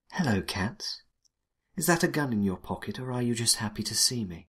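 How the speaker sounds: soft, teasing seductress, breathy start in a whisper; sultry femme fatale. Acted. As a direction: purr it at him like a femme fatale. Narrator voices femme fatale Cassandra.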